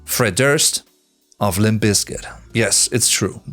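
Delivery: usual speaking voice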